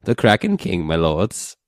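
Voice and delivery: put-on old crone voice. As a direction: croak it like a wine-soaked crone. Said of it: "She says".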